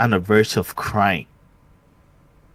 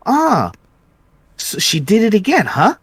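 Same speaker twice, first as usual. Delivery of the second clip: higher, louder voice for the nosy neighbor lady; 11 semitones higher, 4 dB louder than usual. Retold or imitated. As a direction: play the neighbor butting in.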